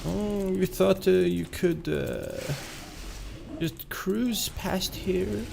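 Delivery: high, slow mock-German voice; attempted German accent. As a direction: draw it out softly in a fake German accent. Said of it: "why can I not do a German accent?".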